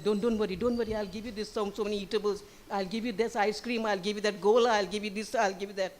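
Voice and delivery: put-on softly reassuring a lost child; quiet, lightly acted comforting; retold soothing. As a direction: coax gently with soft offers. Stranger soothing a lost crying child.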